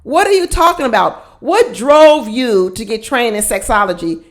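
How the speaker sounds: stunned, baffled question; incredulous. Real, not acted. Incredulous at sexologist claim.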